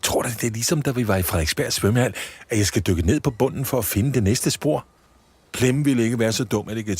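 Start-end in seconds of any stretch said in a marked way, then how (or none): 0.0-4.9 put-on high, bright-eyed elf girl voice; a small elf thrilled by chocolate; high childlike elf delight; Polly the elf. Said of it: "siger Polly".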